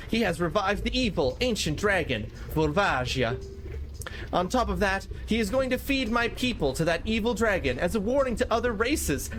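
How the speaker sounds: lightly voiced solemn elder, pitched a bit up; game character dialogue. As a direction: read it as a grave in-game warning. Reads game character's dialogue aloud.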